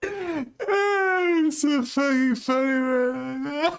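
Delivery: high squealing laugh through the words; can barely talk for laughing; helpless wheezing laughter; laughing hard. Real, not acted. Streamer cracking up at the clip.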